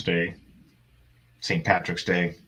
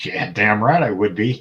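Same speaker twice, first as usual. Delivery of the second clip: emphatic retort; 2 semitones higher, 6 dB louder than usual. Retold or imitated. Acting out own eager reply.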